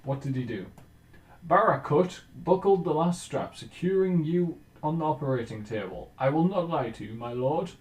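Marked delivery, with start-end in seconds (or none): 1.5-7.7 loud, high storyteller voice reading the surgeon's words; surgeon's event read to his lord, booming and raised; dramatic event reading. Acted. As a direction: read it out like a grand narrator. Reading event text aloud.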